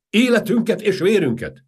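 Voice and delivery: loud very high battle cry; shouted vow. Acted. Guard colonel pledges his life to the king, loud shout. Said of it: "kiáltotta a testőrezredes".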